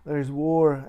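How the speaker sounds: high, loud, alarmed mother on the phone; mom's alarmed call. Retold or imitated. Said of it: "she goes like".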